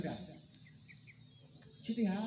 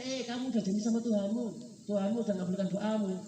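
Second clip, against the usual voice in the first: raised, louder rebuke from the heart; voice of conscience; 3 semitones higher, 4 dB louder than usual. Acted. The heart answering the greedy brain, reproachful inner voice. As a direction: remind him firmly of his promise. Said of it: "tapi hatinya".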